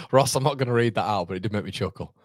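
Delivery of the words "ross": laughing. Real, not acted. Reading a cheeky chat comment.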